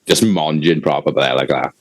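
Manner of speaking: talking while chewing; words round a bite of food; mouth full. Real, not acted. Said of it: "What are you eating?".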